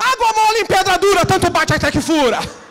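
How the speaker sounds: very high, very loud booming yell. Telling a joke about church members shouting phrases, imitating a man shouting. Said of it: "deu um grito assim".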